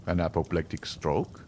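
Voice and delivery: doctor's rising question on "An apoplectic stroke?"; doctor repeating. A narrator's reading. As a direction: echo "apoplectic stroke" back in mild disbelief. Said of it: "repeated the doctor".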